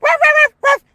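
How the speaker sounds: high, loud yappy ruff barks; mock dog barking at people walking past; dog bark imitation. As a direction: bark like a mad little dog at passersby. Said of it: "he be ruff".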